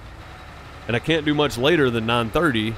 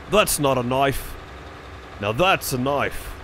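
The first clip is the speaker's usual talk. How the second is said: slow, drawn-out attempt at an Aussie accent, quoting the famous movie line; slow it right down and lean into a half-hearted Aussie accent; slower than usual. Streamer tries a second, better Aussie line for his chat, in a slow half-hearted Aussie accent. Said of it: "a British or an Aussie accent".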